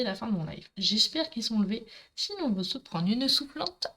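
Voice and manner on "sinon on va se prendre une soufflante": a Marseille accent slipping out; hint of real Marseillais accent. Real, not acted. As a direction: let a southern Marseille lilt come through. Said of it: "mon accent marseillais, il ressort".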